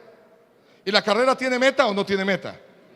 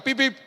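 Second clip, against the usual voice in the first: car horn beeps; 4 semitones higher than usual. Retold or imitated. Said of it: "le pita".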